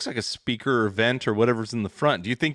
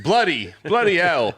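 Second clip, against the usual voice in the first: put-on northern accent; 4 semitones higher, 4 dB louder than usual. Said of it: "first words of the child were".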